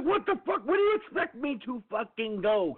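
high, incredulous mock yell; retelling his outrage at the eighteen-wheeler, pitched high; exasperated outburst. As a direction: squeal it up in disbelief at the truck. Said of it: "I'm like".

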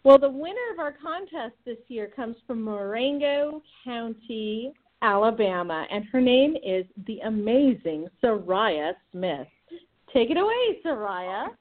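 over a speakerphone line; phone speaker. Real, not acted. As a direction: sound like a caller on speaker. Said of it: "We have you on speakerphone".

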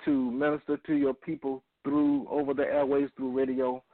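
earnest, measured radio prayer. Acted. Leads opening prayer.

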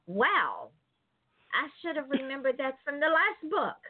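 a lightly voiced reader realizing too late; imitating a reader. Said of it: "and you're gonna go".

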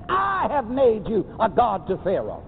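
declared full-voice from the pulpit; preached proclamation. Real, not acted. Preacher proclaiming scripture to the church, ringing declaration. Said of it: "Come on, say it with me".

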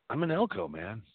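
wired and rambling; jittery, keyed-up talk; too much caffeine. Real, not acted. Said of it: "I'm wired right now".

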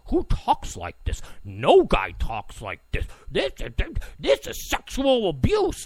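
lightly hammed-up scandalized voice, jumping in pitch; mock outrage. Host mimicking critics of the tape, mock scandalized.

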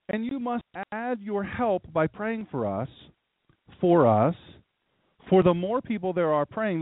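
slow, measured scripture reading. Acted. Preacher reading Paul's letter aloud to the congregation, slow and measured. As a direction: read the verse slowly, with weight.

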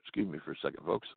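talking round a cigarette while lighting it; words muffled by a cigarette in the mouth. Real, not acted. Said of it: "Let me light my cigarette".

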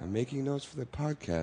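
conserving a sore voice; soft and careful, sparing the throat; quiet sick voice. Real, not acted. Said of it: "trying to conserve my voice".

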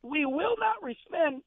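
driving each word home; heated insistence. Real, not acted. Host preaching to fans, fired up and emphatic. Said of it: "I gotta calm myself down".

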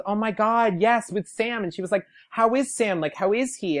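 high, eager imitation of a star; light up at a remembered friend; delighted recognition. A singer asking a fan after Sam, delighted.

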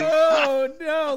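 high shrieking oh no; shocked squeal. Real, not acted. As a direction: squeal in mock horror. Shocked reaction to crude joke.

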